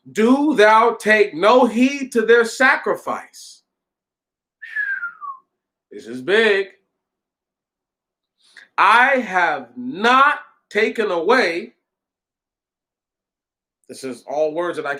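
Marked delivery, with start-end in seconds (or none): 0.1-3.6 slow, emphatic righteous anger, read aloud; righteous indignation. A narrator's reading. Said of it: "Moses was exceedingly indignant". 8.8-11.7 slow, weighty protest, anger understated; righteous indignation. A narrator's reading. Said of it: "Moses was exceedingly indignant".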